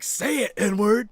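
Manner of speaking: high, very loud imitation of pushy friend; shouted demand. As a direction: yell the order as the buddy. Friend demands, escalating, retold.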